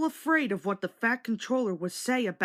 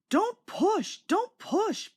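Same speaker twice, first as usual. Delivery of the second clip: much higher, chugging protest; puffing protest; 11 semitones higher, much slower than usual. A narrator's reading. Edward protesting James pushing, high chugging. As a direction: push back in rhythmic puffs. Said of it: "puffed Edward".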